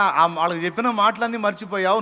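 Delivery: normal talking voice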